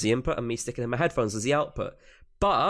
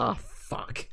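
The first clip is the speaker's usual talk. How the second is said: whispered curse; 2 semitones lower, 8 dB quieter than usual. Retold or imitated. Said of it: "and I was like".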